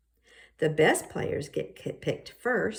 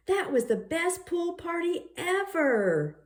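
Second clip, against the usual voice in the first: voiced Fiona; 11 semitones higher than usual. Fiona gushing about party.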